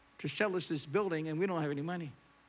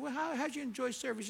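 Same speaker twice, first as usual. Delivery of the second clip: tentative polite question; 5 semitones higher, 4 dB quieter, faster than usual. Retold or imitated. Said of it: "And I said".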